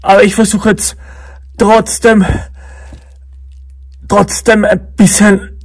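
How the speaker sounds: tipsy, words dragging. Real, not acted. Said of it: "ich bin so dicht".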